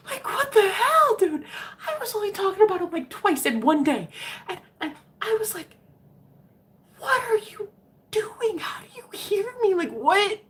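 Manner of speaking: very high, whiny, crying pitch; panicked squeal. Retold or imitated. Squealing in mock panic at a man who reads her mind. Freaking out at his claim.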